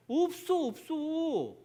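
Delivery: high, loud cry of no; emphatic denial. Acted. Preacher answering his own question to listeners, high emphatic denial.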